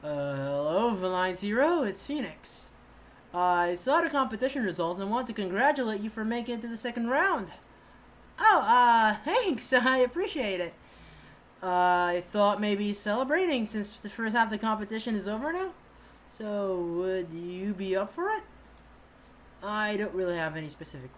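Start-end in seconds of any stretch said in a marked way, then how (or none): 0.0-7.5 deeper voice. Acted. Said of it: "I'll just make it a deeper voice". 11.6-18.4 deeper voice. Acted. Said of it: "I'll just make it a deeper voice".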